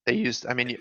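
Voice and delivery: a sudden voice crack. Real, not acted. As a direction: voice cracking mid-word. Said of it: "there's a voice crack there".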